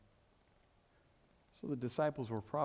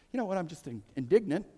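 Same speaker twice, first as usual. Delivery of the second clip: mock huffy complaint; 5 semitones higher, faster than usual. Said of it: "not a word that we typically utter".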